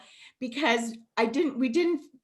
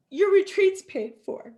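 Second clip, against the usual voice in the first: bright, louder reveal of good news; excited announcement; 5 semitones higher, 4 dB louder than usual. Real, not acted. Telling Naomi her retreat is covered, excited. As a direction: announce it like a gift.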